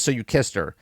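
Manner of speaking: understated, unbothered imitation; not too angry. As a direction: say it low and soft, without much anger. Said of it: "He doesn't sound too angry there".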